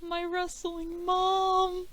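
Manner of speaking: high, drawn-out fond coo; fond gushing. Real, not acted. Guest naming her beloved mentor, fond drawn-out coo.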